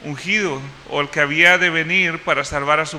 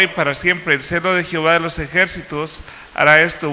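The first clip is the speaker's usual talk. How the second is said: solemn, louder Bible reading; scripture reading; 3 dB louder than usual. Acted. Reads Isaiah passage aloud. (lectura solemne de la Escritura, un poco más fuerte)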